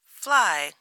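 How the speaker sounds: high, loud questioning echo; incredulous. A narrator's reading. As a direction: query it in motherly disbelief. Mother Bear doubts the cub.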